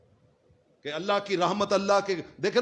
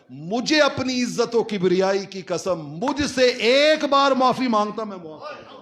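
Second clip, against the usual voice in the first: retold divine oath, rising higher and louder; impassioned oath; 4 semitones higher, 4 dB louder than usual. Preacher voicing God's oath to Moses, impassioned and building. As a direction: swear it solemnly, building to a loud high peak.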